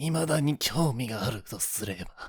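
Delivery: rasping anime-villain voice. Trying out the Japanese voice of an anime villain: Orochimaru voice impression. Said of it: "kind of raspy, but also like in a high register".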